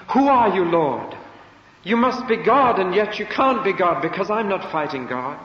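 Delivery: high, loud, urgent asking; confused Paul. Acted. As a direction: plead in alarmed confusion. Paul's confused plea.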